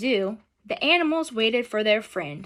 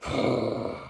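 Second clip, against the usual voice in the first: nose blow; 12 semitones lower, 4 dB quieter than usual. Shown as a demonstration. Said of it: "blow into our handkerchief".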